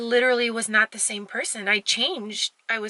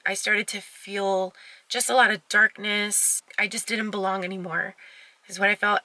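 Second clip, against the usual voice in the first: getting emotional. Real, not acted. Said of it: "I'm so sorry that I'm getting emotional".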